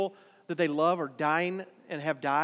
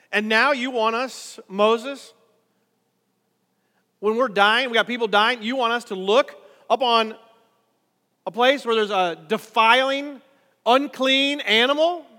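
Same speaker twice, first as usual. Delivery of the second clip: incredulous protest; 2 semitones higher, 6 dB louder than usual. Acted. Israelites protesting to Moses.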